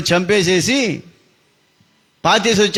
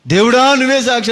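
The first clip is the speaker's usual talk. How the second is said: higher, louder mimicking cry; mock plea; 7 semitones higher, 3 dB louder than usual. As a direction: mimic the victim's words scornfully. Killer mocks brother's last words. (చంపినవాడు వెక్కిరిస్తూ అనుకరించడం)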